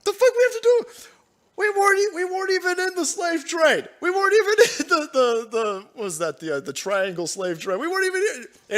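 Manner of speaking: very high, loud exasperated squeal; mock corporation voice. The Japanese company protesting to the streamer in a high, loud squeal. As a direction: play the baffled company, shrieking. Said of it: "Japanese corporations like".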